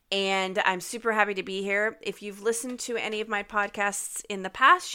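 stuffy, nasal voice after illness. Real, not acted. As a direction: talk through a blocked nose. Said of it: "my voice sounds a little different".

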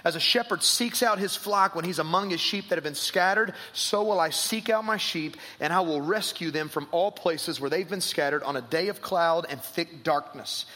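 reading scripture aloud with weight. Acted. Pastor reads Ezekiel to the congregation, proclaiming. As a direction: proclaim the prophet's words.

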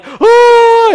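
loud high yelp of a man; mock startled shout; retold shout. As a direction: let out a sudden startled yell.

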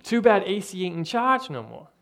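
a light, self-admitted bad Italian mobster accent. Pastor quoting a Home Alone mobster in a weak Italian accent. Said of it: "I'm not great at the Italian accent".

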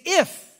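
"if" shot up high and loud; spring the word "if" on them; stressed if. Shown as a demonstration. Preacher unveiling the key word to the church, punching "if". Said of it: "the first word that Jesus hears".

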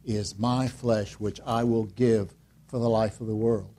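slow solemn quote of Jesus. Retold or imitated. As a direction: intone it slowly and gravely. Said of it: "He said".

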